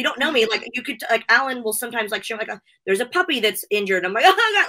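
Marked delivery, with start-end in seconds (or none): 4.3-4.7 high, loud weepy wail; hammed-up crier breaking down, voice shooting up; mock tearful wail. Self-confessed crier seeing an injured puppy, mock tearful wail. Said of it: "I'm just a crier".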